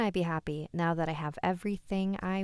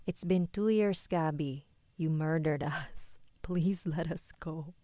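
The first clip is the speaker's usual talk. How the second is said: ghostly mother pleading; slower than usual. Acted. Dead mother accuses daughter.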